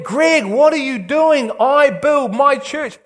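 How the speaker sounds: voice of God. Retold or imitated. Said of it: "Till God went".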